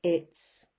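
"It's" set apart as a lone beat; unstressed demo. Shown as a demonstration. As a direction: say "It's" on its own, then pause. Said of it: "happy, unstressed".

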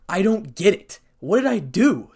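loud, high, upset confusion; bewildered. A narrator's reading. Issei thinking under everyone's anger, loud bewilderment.

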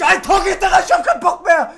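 loud, fed-up shouting; exasperated sore-loser outburst; frustrated rage. Real, not acted. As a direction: rant at the game at full voice. Loser rages at missed goals.

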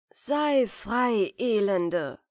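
loud, cold dismissal; curt loud retort. Acted. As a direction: fling it back at her, loud. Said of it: "rief Anton". (lauter, kalter Abschied)

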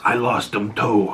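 lightly voiced son's reply. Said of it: "he goes".

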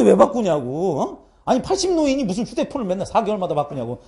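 retold grumbling protest; exasperated scolding. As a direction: imitate telling off a parent. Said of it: "내가 막 뭐라 해". (기가 막힌다는 듯 따지며)

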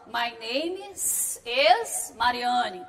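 slow, with "is" said twice by mistake; the wrong double is. Shown as a demonstration. Teacher imitating a student's wrong version with a doubled is. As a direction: mimic a learner repeating "is". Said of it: "Não pode".

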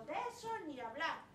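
loud, stern refusal; father forbidding his daughter's wish after slamming the table; angry father. Acted. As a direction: fist on the table, put your foot down. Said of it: "pegó un puñetazo en la mesa y dijo".

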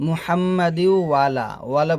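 ওয়ালা as one word, no throat sound; ain dropped. Shown as a demonstration. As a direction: run ওয়া আলা together as ওয়ালা. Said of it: "আইনের উচ্চারণটা বাদ দিয়ে দিই".

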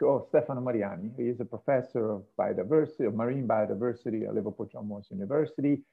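lightly voiced audience member wondering aloud; imagined listener's question. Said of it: "some of you might actually ask".

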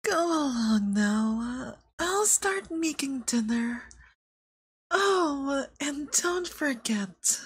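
a loving partner seeing you out the door, lightly voiced; tender roleplay partner. Roleplay partner sending listener off.

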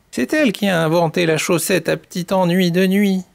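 animated, bouncy grandmother-hen greeting; lively storytelling hen. Acted. Mamie Poule calls to her chicks, lively storyteller. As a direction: greet the little chicks with playful verve.

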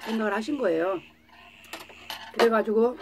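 speaking between bites; chewing while talking. Real, not acted. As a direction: mouth partly full of food. Seen 0: Food taken in at -1.0; jaw and cheeks chew through 3.8.

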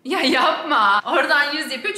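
laughing while talking. Real, not acted. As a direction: laugh through the words. Laughing at wallpaper idea.

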